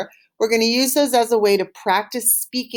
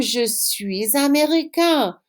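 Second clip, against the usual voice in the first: slow model answer; 3 semitones higher, slower than usual. Shown as a demonstration. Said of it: "And you would answer".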